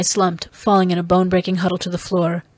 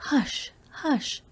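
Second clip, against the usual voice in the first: soft, high, soothing whisper; 7 semitones higher, 6 dB quieter than usual. Acted. Dalisa bending over the injured man, soft whisper. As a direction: hush him gently, very softly.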